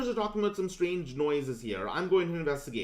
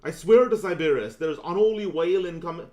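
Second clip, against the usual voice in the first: attempted Southern accent, loud; loud, failed Southern accent attempt; 3 semitones higher, 8 dB louder than usual. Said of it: "I can't do a southern accent".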